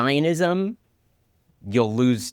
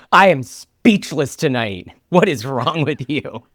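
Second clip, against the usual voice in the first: stern scolding; 3 semitones higher, 5 dB louder than usual. Retold or imitated. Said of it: "No, she's like".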